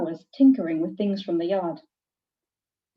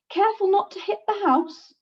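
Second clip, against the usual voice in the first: father yelling; 11 semitones higher than usual. Acted. Father calls up to flying daughter, raised warning yell. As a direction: yell a warning up to a child in the air. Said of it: "Violet's father would yell".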